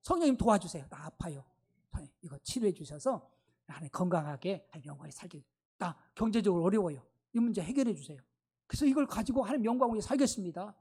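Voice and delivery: humble plea. Pretend. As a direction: model a humble believer asking the Spirit for help. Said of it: "이제 성령님께 좀 의지하세요". (낮고 부드럽게 간구하는 기도)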